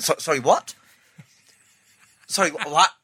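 can't believe what he's hearing; stunned disbelief. Retold or imitated. Stunned by the manager's news.

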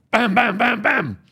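loud, high, punchy bams; imitated banging. Storyteller acting out sudden banging on the French window, loud and high. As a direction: bang out each word like fists on glass.

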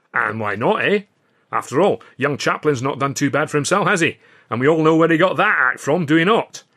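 a hint of a Scottish comic, delighted; lightly voiced Scotsman. The speaker boasts.

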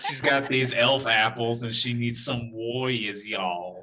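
slow mock country drawl with laughter; country accent. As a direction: echo the country accent, amused. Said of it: "natives here have a country accent".

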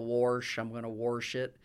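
"warsh" with an added R, as in southern Indiana; twangy warsh. Shown as a demonstration. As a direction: say "warsh" with an R before the sh. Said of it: "That's the real warsh".

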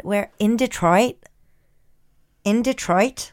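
careful American-accent demo; American accent, testing the phrase. Shown as a demonstration. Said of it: "Let me think of my American".

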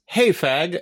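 misheard insult. Retold or imitated. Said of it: "all I heard was".

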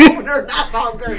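loud, laughing fix of the name; laughing correction. Real, not acted. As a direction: correct the name while cracking up.

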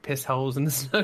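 lightly imitated British film-star accent; a touch of Michael Caine's British accent. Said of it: "in your Michael Caine accent".

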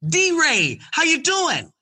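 grabbed the phone in a hurry; breathless eager greeting. Retold or imitated. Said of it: "he's moving fast".

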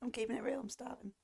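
talking while eating cereal; words round a mouthful of cereal. Real, not acted. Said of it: "Sorry if you can hear her eating cereal".

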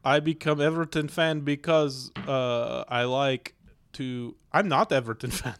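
halting mock Russian accent. Shown as a demonstration. Guest corrects being Everton fan, put-on Russian accent. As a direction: play the Russian flatmate, searching for words. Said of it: "Russian accent".

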